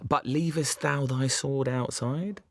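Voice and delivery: put-on high, slow, theatrical old-English delivery; mock Shakespearean. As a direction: ham it up like a stage actor. Lloyd mocks in Shakespearean speech.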